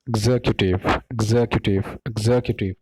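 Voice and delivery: एग्जीक्यूटिव repeated as "ig-ZEK-yu-tiv"; correct pronunciation. Shown as a demonstration. Teacher drilling the right form for students, correct pronunciation. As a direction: drill एग्जीक्यूटिव, weight on "zek", falling each time. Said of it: "इसको ऐसे pronounce किया जाता है".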